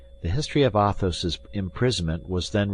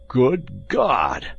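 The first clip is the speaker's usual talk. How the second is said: loud, raised hollow voice; hollow cry; 6 semitones higher, 5 dB louder than usual. A narrator's reading. Athos cries from inside the cellar, hollow voice. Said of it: "cried the hollow voice of Athos".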